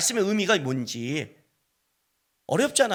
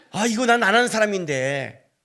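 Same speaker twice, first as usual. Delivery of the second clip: drawn-out, higher protest to oneself; reluctant grumble; 4 semitones higher, 3 dB louder than usual. Retold or imitated. Preacher balking at phoning his colleague, reluctant grumble. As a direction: drag it out, unwilling to make the call.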